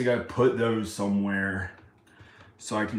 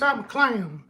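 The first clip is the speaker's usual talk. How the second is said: squeaky high clown, much higher; high-pitched clown voice; 10 semitones higher, 4 dB louder than usual. Pretend. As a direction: play a silly cartoon clown in a piping voice. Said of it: "sounds like this".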